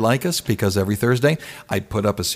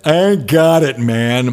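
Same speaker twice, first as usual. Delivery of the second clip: hammed-up New York accent, pitched up at the start; 3 dB louder than usual. DJ mocks his own accent playing broke guitarist, exaggerated New York accent. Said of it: "do a real New York accent".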